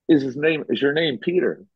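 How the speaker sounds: high-pitched eager question in retelling; imitated excitement. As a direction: mimic an astonished woman asking.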